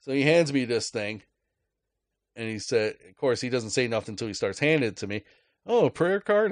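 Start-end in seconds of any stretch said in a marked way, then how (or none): 5.6-6.5 mock preachy stranger. Guy handing out prayer cards.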